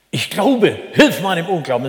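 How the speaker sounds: retold desperate cry. Father cries to Jesus for his son, acted desperate cry. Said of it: "Da schrie krächzend der Vater".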